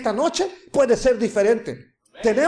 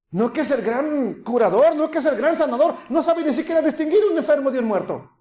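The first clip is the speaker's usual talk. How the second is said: raised, scornful taunting crowd; mocking jeer; 4 semitones higher than usual. Mockers taunting the Messiah about the dead girl, jeering. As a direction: imitate scoffers jeering at a healer.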